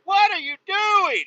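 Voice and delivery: high, slow mock yell; drawn-out, high indignant question; exasperated demand. Retold quarrel with door slammer.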